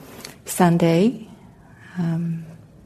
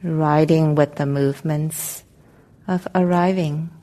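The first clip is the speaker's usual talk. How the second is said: calm, unhurried meditation guidance with long pauses; guided meditation; 5 dB quieter than usual. Real, not acted. Meditation teacher helping the group settle into their seats, calm guided meditation. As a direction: guide them gently into arriving, leaving space between phrases.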